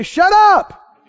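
sudden high-pitched command; speaking out. Shown as a demonstration. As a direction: silence the worry in one burst.

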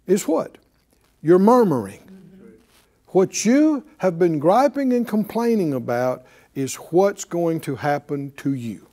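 ordinary talk, nothing marked

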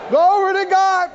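high, loud cry of Glory to God; exultant preacher's cry; shouted praise. Shown as a demonstration. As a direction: lift it up and shout it. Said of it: "somebody say".

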